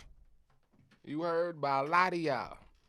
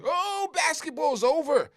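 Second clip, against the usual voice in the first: high, loud hammed-up wail; exaggerated outcry of an upset fan; mock panic; 11 semitones higher, 8 dB louder than usual. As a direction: cry out as if the sport is doomed. Acts out everybody going crazy.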